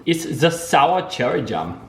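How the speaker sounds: put-on playful German-accented food description; mock German accent. Joking German accent bit over jam.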